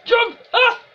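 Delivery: high loud yell; shouting. Real, not acted. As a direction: scream the word out. Urging keeper to jump.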